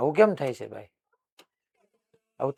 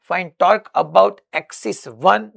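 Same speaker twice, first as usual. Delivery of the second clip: very slow, a little higher and louder, for students to write; slow dictation; 4 semitones higher, 5 dB louder, much slower than usual. Shown as a demonstration. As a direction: spell it out word by word to the class. Dictating question text. (ધીમે ધીમે લખાવવું)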